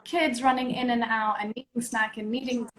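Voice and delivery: choppy audio dropping out; bad connection breaking up; voice cutting in and out. Real, not acted. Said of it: "Your voice is going in and out now".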